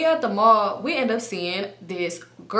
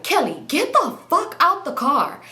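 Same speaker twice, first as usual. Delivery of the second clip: higher, drawn-out mock exasperation; retold angry order; 7 semitones higher, slower than usual. Man ordering Kelly out of the car, mock exasperated. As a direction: act out an impatient order, slowly.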